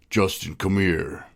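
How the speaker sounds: slow, drawn-out "Justin, come here" like a DJ; slow radio voice. Retold or imitated. Teasing himself on the podcast, a slow mock radio-host call. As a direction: stretch it out like a radio host calling a friend over. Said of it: "I did it in my radio voice".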